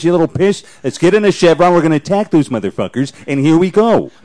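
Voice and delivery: lightly voiced officer rallying the troops; Alan Alda. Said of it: "What would Alan Alda sound like on the battlefield?".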